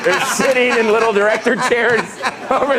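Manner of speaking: high, loud, laughing protest; retold exasperation. Assistant pointing at the director chairs, loud retold protest. Acts out his exasperated reply.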